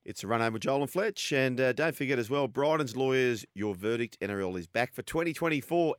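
brisk, upbeat radio promo read; sponsor ad read. Acted. Host reads a survivor tipping promo to listeners, ad read. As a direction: sell the competition to listeners.

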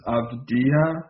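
Avdia with the J barely touched; silent J. Shown as a demonstration. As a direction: say Avdia gliding from "ee" into "ah". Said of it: "don't even hit the J".

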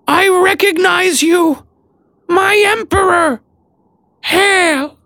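very high, slow squeaky creature shout; squeaky squirrel voice. Acted. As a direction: shout it like an ecstatic tiny squirrel. Maud voiced again.

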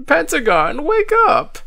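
very high-pitched call to wake someone; urgent shout. A narrator's reading. Frightened child rousing Pentagon, shouting. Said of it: "You don't have to shout".

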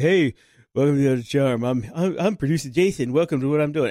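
slurred, mushy imitation of "welcome to the Charm"; mush mouth. Producer mocking how he introduced himself when starting out, mush-mouthed. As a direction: run "producer Jason" together with loose, blurred consonants. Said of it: "I was all mush mouth".

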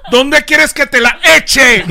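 high, loud, slow, laughing; sleazy radio host voice; Franklin Virgo impression. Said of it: "¿Cómo será Franklin masturbándose?". (locutor lascivo entre risas)

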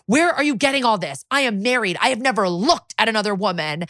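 mildly heated, emphatic protest; imitated fury. Accused detective gets up to defend himself, mock fury. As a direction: retell a furious man's denial, pitch lifted at the start. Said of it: "He's furious".

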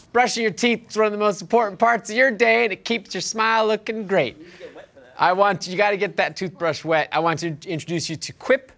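smooth, measured sponsor read; podcast ad read. Acted. Host pitches a toothbrush to listeners, ad read. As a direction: sell it like a host reading copy.

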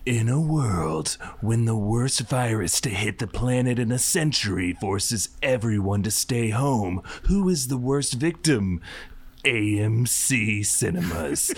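low, hushed trailer narrator; movie trailer voice. Acted. Parody trailer read to the hosts, in a hushed trailer voice. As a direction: open like a gravelly-free epic trailer, hushed.

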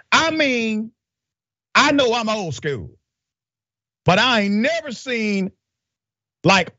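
high, halting jailer impression; drawn-out, high-pitched mock jailer. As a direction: imitate an old-school jailer, pitched well up, with pauses. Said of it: "do it in the spirit of the jailer".

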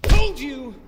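loud, slow gloating yell; triumphant shout. Acted. Player gloating at the fallen villain with a shout. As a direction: bellow it over the beaten enemy.

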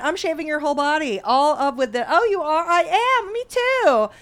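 hammed-up, high excited infomercial voices; home shopping host. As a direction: oversell it like a TV ad couple. Acted infomercial couple dialogue.

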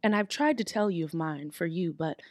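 heartfelt. Acted.

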